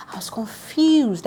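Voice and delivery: slow whispered confession. Real, not acted. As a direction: hush it like a secret. Confused aside.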